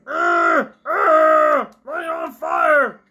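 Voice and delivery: high strained yell, slow on the words; frantic yell. Real, not acted. Player fighting the ghost, yelling the fix, high and strained. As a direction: force it out mid-struggle.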